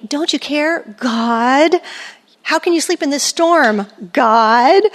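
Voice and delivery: mock-frantic plea to God; a touch of frantic whining; frantic disciples. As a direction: whine it like panicked disciples in a storm. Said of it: "They're frantic with God".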